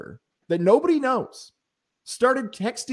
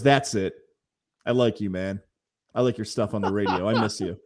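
imitated fan; 6 semitones lower than usual. Voicing the fan who approached.

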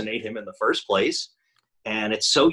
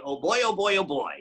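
Donald Duck voice; 6 semitones higher than usual. Shown as a demonstration.

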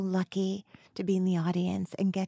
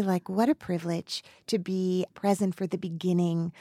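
heartfelt tribute; 2 semitones lower, 4 dB quieter than usual. Real, not acted. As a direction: speak softly, moved and sincere. Heartfelt tribute to her guest.

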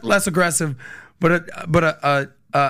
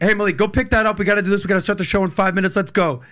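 bossy command; faster than usual. Retold or imitated. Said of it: "If I told Malik".

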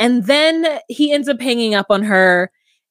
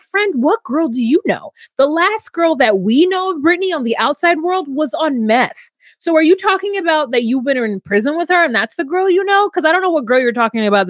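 sassy retort; 6 semitones higher than usual. Retold or imitated. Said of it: "And I'm like".

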